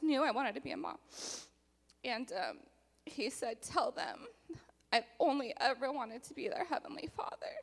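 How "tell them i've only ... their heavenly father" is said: tearful. Real, not acted. Quoting God, voice crying.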